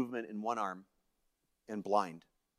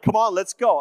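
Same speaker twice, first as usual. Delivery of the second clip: higher, louder push to get going; insistent urging; 6 semitones higher, 5 dB louder than usual. Retold or imitated. Wife pushes husband to go skating, insistent. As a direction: imitate someone who won't take no. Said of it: "she was so insistent".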